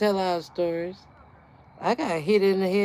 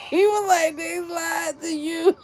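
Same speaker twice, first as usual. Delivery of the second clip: laughing; 9 semitones higher than usual. Retold or imitated. Friend's retort, retold laughing.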